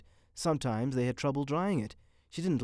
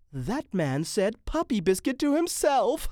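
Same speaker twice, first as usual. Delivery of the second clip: high, loud and tickled; amused passer-by; 10 semitones higher, 7 dB louder than usual. A narrator's reading. Woman telling her companion about Mitty, laughingly amused. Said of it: "A woman who was passing laughed".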